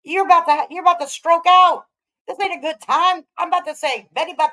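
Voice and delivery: loud, high incredulous mockery; mock her loudly, disbelieving. Real, not acted. Mocking reaction to the clip.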